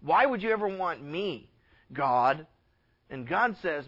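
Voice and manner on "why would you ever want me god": mildly voiced son, soft and lower; quiet, insecure plea to a father; doubting son. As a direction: ask it softly, doubting you are wanted. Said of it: "We're like the son saying".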